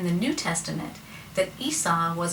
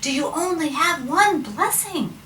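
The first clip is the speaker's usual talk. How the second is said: high, slow, loud pleading wail; drawn-out hammed-up anguish; mock crying; 10 semitones higher, 5 dB louder than usual. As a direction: beg dad in pretend tears. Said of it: "he's crying".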